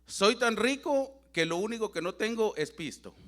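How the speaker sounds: chuckling as he delivers the punchline; laughing through the joke. Real, not acted. Preacher jokes to his brothers about his riches, laughing. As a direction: laugh while joking to the congregation that he lacks money.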